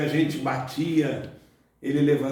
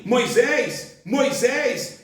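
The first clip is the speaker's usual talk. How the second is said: calling a name twice, solemn; voice of God calling; 8 semitones higher, much slower than usual. Acted. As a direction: call out like God. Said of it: "Ele diz assim".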